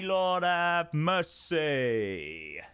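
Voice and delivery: very slow, stretched-out "Lord, have mercy"; drawled mock exclamation. Streamer prompting chat to say it, slow drawled exclamation. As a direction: drag every word out like a preacher.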